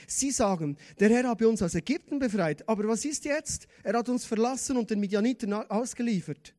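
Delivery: mildly acted doubtful Gideon; negative Gideon's complaint. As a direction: plead a complaint to the Lord. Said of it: "Die negativen Worte von Gideon".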